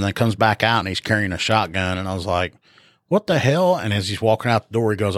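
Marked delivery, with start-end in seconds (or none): 3.1-3.8 startled high quote. Retold or imitated. Retelling a man with a shotgun.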